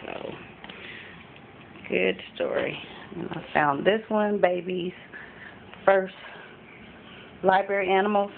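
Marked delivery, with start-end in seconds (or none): 3.2-8.3 breathless, gasping between words; out of breath. Real, not acted. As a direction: talk while catching your breath. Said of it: "I'm out of breath".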